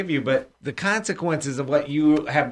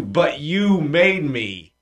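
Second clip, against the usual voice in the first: slow blaming but; much slower than usual. Retold or imitated. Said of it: "don't go on to".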